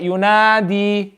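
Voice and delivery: YUNADI with long held vowels; stretched. Shown as a demonstration. Teacher corrects a student's reading, stretched out. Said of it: "stretch it".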